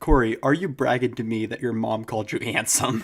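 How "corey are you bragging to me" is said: plain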